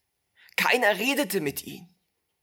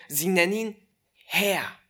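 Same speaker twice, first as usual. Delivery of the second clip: ordinary talk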